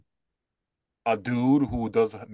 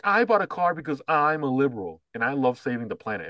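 self-righteous boast, pitched higher; mocking liberal buyer; 4 semitones higher than usual. Mocking people who buy cars as a political stance, higher mock boast. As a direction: lightly mimic someone bragging about their virtue. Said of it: "who talks like that".

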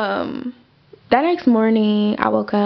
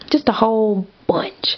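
whispered aside. Real, not acted. Trailing off about mounting costs.

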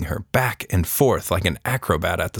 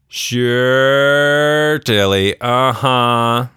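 louder, indulgent disbelief; humoring dad; 4 semitones higher, 5 dB louder, much slower than usual. A narrator's reading. Father humoring his daughter's story, indulgent disbelief. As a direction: humor her without believing.

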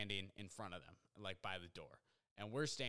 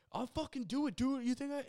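very high, louder mock threat; imitated frantic threat; 13 semitones higher, 6 dB louder than usual. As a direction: play the worked-up dude, pitched way up. Drug user escalates his threat.

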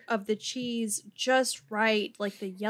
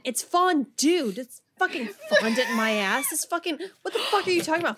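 mock-outraged, higher-pitched tirade; exasperated, swearing impression, pitched up; imitated indignant rant; 5 semitones higher, 6 dB louder than usual. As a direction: imitate a friend insistently correcting you. Retells friend's indignant voice message.

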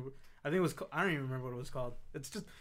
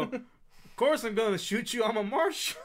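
mock marshal; 6 semitones higher than usual. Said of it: "And then Raylan will go".

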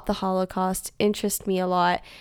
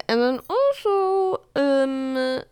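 put-on British accent; 4 semitones higher, slower than usual. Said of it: "Did you like my British accent?".

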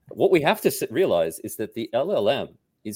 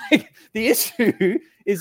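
laughing; 13 semitones higher, 5 dB louder than usual. Real, not acted. Laughing while explaining.

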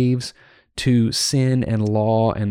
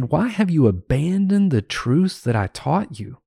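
imagined reproach, pitched a little higher; mild mentor's scolding; 4 semitones higher than usual. Acted. Mentor writing to a student who abandoned the truths, mildly scolding. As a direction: lightly act out a mentor demanding answers. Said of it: "scolding you".

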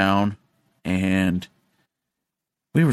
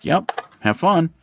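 teasing; 8 semitones higher, slower than usual. Retold or imitated. Dad teasing son in jail.

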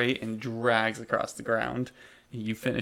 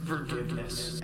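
ghostly mother; 6 dB quieter than usual. Acted. Ghostly message in your mom's voice, haunting and soft. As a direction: let it drift softly through their thoughts. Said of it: "a ghostly message fill your thoughts in your mom's voice".

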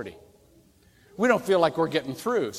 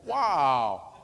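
unbothered wow; 6 semitones lower than usual. Acted. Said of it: "go by and go".

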